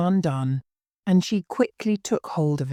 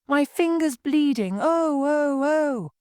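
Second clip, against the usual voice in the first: much higher hammed-up wailing; screaming; 12 semitones higher than usual. Queen wailing that her finger bleeds, higher mock scream. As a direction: mock-scream of pain, not very loud. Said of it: "the Queen began to scream very loudly".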